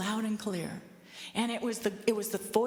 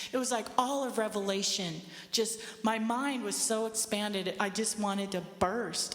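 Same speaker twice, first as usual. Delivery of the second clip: ordinary talk, nothing marked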